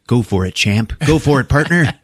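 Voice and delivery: mock pep talk, rising on the second cheer; hammed-up encouragement to oneself; self pep talk. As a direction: imitate someone cheering himself on aloud. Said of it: "saying out loud to himself".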